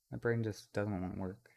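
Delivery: drowsy, fading voice; sleepy after no sleep; nodding off. Real, not acted. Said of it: "I'm falling asleep".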